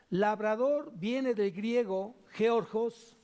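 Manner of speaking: "georgos" said slowly with the stress on the second O, geórgos; Greek word georgos. Shown as a demonstration. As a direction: teach "georgos" carefully, leaning on the second O. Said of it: "acento en la ... segunda O lleva acento".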